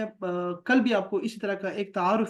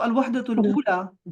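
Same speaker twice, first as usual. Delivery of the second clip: الوحدۃ الاولی read out slowly with stress on الوحدۃ; slow clear teacher pronunciation; slow model reading; 3 semitones higher, 5 dB louder, slower than usual. Shown as a demonstration. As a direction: sound out الوحدۃ الاولی carefully for students. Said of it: "جیسے میں کہوں گا الوحدۃ الاولی".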